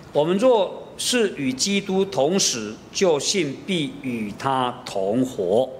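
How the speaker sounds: slow, measured Bible reading; scripture reading. Acted. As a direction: read the verse slowly and solemnly. Reading scripture aloud slowly.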